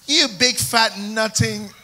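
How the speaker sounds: mock insult in an American accent. Shown as a demonstration. Preacher shows it doesn't work in American, American accent. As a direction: try the same insult in American, drawn out at the end. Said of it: "Imagine I say that in American".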